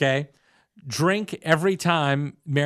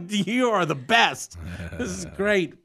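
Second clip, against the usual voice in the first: mock admiration; 4 semitones higher, slower than usual. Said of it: "I was like".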